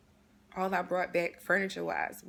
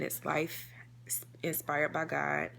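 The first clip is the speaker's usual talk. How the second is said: slow dictation; 5 semitones lower, slower than usual. Shown as a demonstration. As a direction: dictate it slowly so they can write it down. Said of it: "Um, again".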